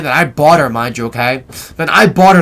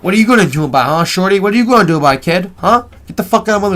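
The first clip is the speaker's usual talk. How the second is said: mock challenge, pitch climbing; retold confrontation; 3 semitones higher, faster than usual. Storyteller replays facing down a kid, retold confrontation. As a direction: act out squaring up to a rival.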